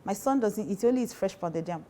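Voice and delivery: mother-in-law quote. Retold or imitated. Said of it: "his mom just says".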